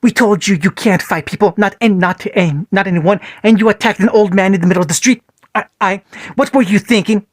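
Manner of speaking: angry father. Acted. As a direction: let the anger burst out at your son. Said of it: "Minato's angry voice burst out of him".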